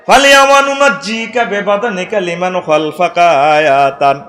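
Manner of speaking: Quran recitation. Acted. Preacher recites the Quran verse to the crowd in slow chant. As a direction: draw each word out in a sung recitation.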